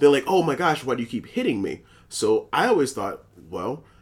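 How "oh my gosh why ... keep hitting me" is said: put-on petulant, whiny, complaining sore-loser whine. Retelling what losing players say while playing: imitating a complaining player. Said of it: "complain about when they're playing the game".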